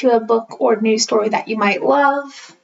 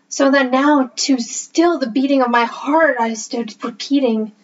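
poem reading. Acted. Reading The Raven aloud to listeners, in a hushed spooky recital. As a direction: read it like a ghost story by candlelight.

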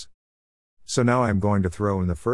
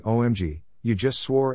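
whiny voice; 3 semitones higher than usual. Retold or imitated. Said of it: "In a whiny voice I hear someone saying".

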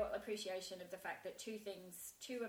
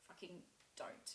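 slow, hushed, near-whispered command to herself; stern inner voice; 9 dB quieter than usual. Retold or imitated. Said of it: "shut all of that down and was like".

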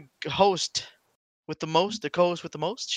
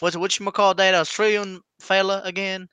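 put-on Florida Southern accent. Floridian recalling an Australian fella, Florida Southern accent. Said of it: "Florida to, like, Australia".

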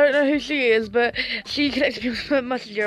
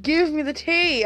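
begging for tea; 5 semitones higher than usual. Real, not acted. Begging for gossip.

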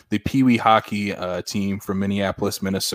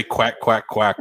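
dead serious; slower than usual. Retold or imitated. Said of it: "with the most seriousness".

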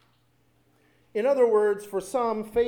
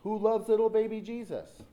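mildly insistent mock call, pitched up; raised voice, pressing for an answer; demanding question; 5 semitones higher, 3 dB louder than usual. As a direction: imitate kids turning it into a demand. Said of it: "It almost sounded like a demand".

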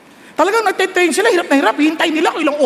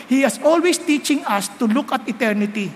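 ordinary talk

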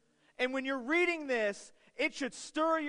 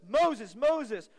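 urgent louder call of the name twice; God calling Moses; 6 dB louder than usual. Retold or imitated. Preacher voicing God calling Moses, urgent loud call. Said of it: "He yells at Moses".

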